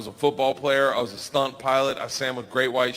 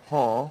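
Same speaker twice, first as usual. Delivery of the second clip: nonchalant huh; 3 semitones lower than usual. Retold or imitated. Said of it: "walk in front of the bear like".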